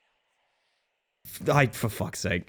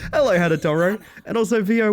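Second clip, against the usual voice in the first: ordinary delivery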